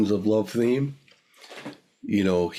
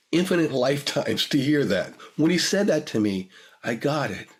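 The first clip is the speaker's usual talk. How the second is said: emotional; 6 semitones higher than usual. Real, not acted. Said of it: "I apologize for getting emotional".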